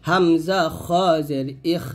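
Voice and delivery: "খ" said thick and full, "ইখ" ending in throaty friction with breath; thick Arabic kha in "খ" and "ইখ"; heavy খ. Shown as a demonstration. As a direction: make the "খ" heavy and let air out on "ইখ". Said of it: "খটা মোটা করতে হবে অবশ্যই".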